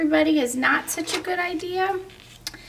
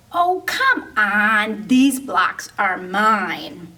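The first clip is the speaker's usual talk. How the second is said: sulky whine; 3 semitones lower, slower than usual. Acted. Sulky dino defends his blocks.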